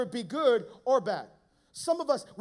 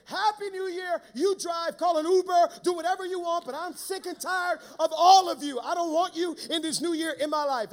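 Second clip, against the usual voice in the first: exasperated rant; 5 semitones higher, 5 dB louder than usual. Retold or imitated. Retold outburst at nagging passengers.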